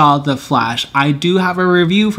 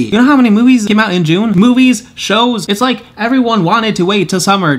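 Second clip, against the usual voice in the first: excited; 6 semitones higher than usual. Real, not acted. Excited rant about June releases.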